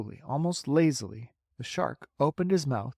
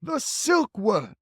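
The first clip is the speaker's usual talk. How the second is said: loud slow exclamation; cried out; 9 semitones higher, 5 dB louder, much slower than usual. Acted. Grasshopper revealing the silkworm, slow loud cry. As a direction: announce the discovery. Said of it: "cried the old green grasshopper".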